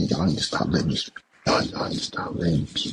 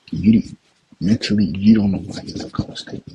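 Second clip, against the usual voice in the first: raised voice; 3 semitones higher, 5 dB louder than usual. Real, not acted. Angry rant at the pundit.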